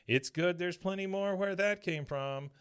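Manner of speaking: cashier. Retold or imitated. Cashier handing winnings to the doctor, in character. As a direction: lift the voice into a sing-out character. Cashier voiced in retold scene.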